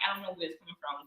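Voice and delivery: soft, deflated admission; flat sad. Retold or imitated. To herself on a heavy Monday, soft and deflated. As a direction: let it drop out quietly. Retelling her low Monday.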